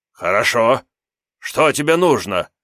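a cowardly demon bluffing loudly; panicky little demon. Acted. Imp demon voiced in story. (визгливый трусливый демон)

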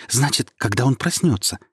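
rising with eager hope; a star suddenly full of hope; eagerly asks the voice about the wish; inspired, eager. Acted. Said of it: "воодушевлённо спросила звезда".

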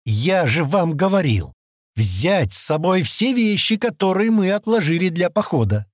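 put-on Stan scolds the girls through his teeth, irritated; through gritted teeth. A narrator's reading. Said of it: "Сквозь зубы проговорил он".

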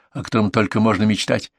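usual speaking voice

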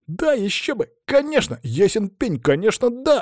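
put-on high-pitched excited kids chiming in; eager agreement. A narrator's reading. Children eagerly agree, one after another. (восторженно, высоким детским голосом)

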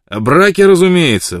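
bursts out loud and high; sudden loud outburst from Matt; blurted out. A narrator's reading. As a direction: blurt it out before he can stop. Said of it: "выпалил Мэтт".

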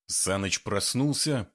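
ordinary delivery

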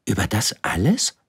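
„alles“ lifted as an amazed question; astonished question. Acted. Prince questions, king confirms. („Über das alles?“ staunend fragend, „alles“ steigend)

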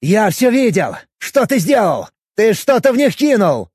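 loud, high accusing shout; angry accusing. Acted. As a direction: accuse him heatedly. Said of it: "Ещё больше распалился Степанов".

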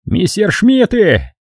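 high, slow joyful cry; jubilant shout. A narrator's reading. Sergeant seeing friendly planes, high jubilant. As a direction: hail the planes with joy. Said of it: "крикнул фельдфебель".

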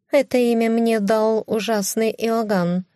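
high offended cat voice. Acted. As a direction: cut in high like a proud cat. (высокий обиженный кошачий голос)

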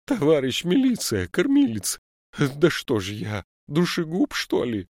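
put-on high, loud wailing old woman. A narrator's reading. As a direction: wail in terror to the policeman.

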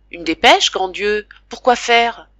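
exclamation effarée, plus forte; cri de surprise inquiète; stupeur effrayée. Acted. Stupeur devant le télégramme. (stupeur effrayée, plus forte)

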